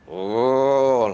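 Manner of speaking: long, drawn-out ooh; demonstrated "oh". Retold or imitated. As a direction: act out a sudden wave of dread. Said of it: "like this".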